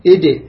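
ايدي as "id" with a bounced d; qalqala on dal. Shown as a demonstration. Teacher repeats dal for students, qalqala bounce. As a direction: release the d of ايدي in a short echo. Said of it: "زين، كذلك".

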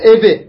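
اب with a bounced final b; qalqala echo. Shown as a demonstration. Teacher lists qalqala letters, bouncing echo on اب. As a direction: release the ب of اب with a small echo. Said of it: "هذا الاضطراب هو القلقلة".

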